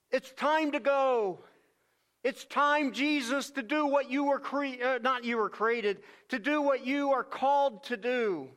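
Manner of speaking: eager, rising call to go; excited. Acted. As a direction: urge him on with enthusiasm.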